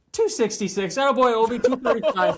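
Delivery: high, loud hammed-up locker-room cheer; mock cheer. Teammate cheering Ovi's weigh-in, hammed-up loud cheer. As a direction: cheer him on like a proud teammate.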